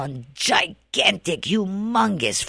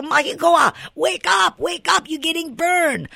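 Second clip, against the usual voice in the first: panicked yelling; 13 semitones higher than usual. Retold or imitated. Pilikana shaking his burning brother-in-law, high panicked yelling. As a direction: yell in panic while shaking his shoulders. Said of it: "Pilikana stop for panic".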